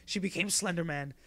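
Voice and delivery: whisper. Real, not acted. Hushed aside about scary game.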